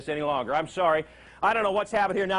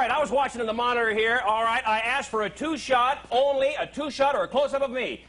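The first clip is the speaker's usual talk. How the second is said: hammed-up higher boss rant; mock scolding; 4 semitones higher than usual. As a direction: chew out the crew for show. Host scolding booth staff, mock.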